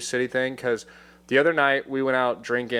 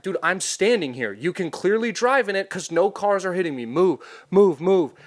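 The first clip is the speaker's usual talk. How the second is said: retold yell; 6 semitones higher than usual. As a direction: yell at the driver to move. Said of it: "yelling at the guy".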